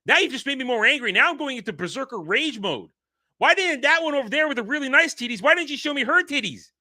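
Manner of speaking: high, loud mock outrage; hammed-up angry complaint; mock angry rant. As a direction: play the offended brute, yelling. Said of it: "make Peak Physical Man angry".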